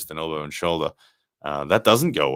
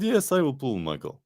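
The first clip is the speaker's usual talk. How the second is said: put-on Russian accent; 8 semitones higher than usual. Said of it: "I think I did a Russian accent".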